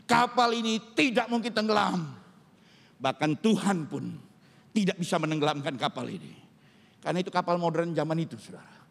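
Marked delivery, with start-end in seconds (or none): 0.1-6.4 deliberate, mildly pompous proclamation; arrogant boast. Retold or imitated. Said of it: "dengan arogannya berkata". (tiruan sombong yang agak angkuh)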